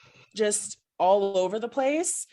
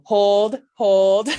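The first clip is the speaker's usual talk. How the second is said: calling out; 8 dB louder than usual. Retold or imitated. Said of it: "you hear Joe go".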